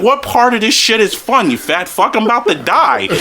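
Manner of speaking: high, worked-up exasperated outburst; panicked scolding. Retold or imitated. Son retells yelling at dad up on the ride, panicked scolding.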